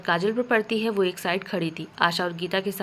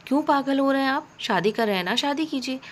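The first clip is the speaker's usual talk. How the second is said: mildly angry, higher-pitched retort; 6 semitones higher than usual. A narrator's reading. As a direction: throw it back with a touch of anger. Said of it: "गुस्से में काजल".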